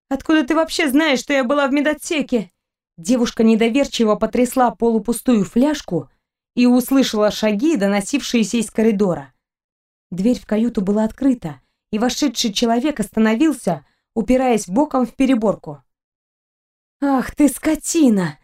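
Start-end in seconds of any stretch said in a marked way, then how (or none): 0.1-2.5 rising suspicion. Acted. Suspicious captive questions pirate. 17.0-18.4 a higher, slow snarling curse; growled insult. Acted. Captive snarls at her captor, slow and angry. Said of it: "зарычала пленница".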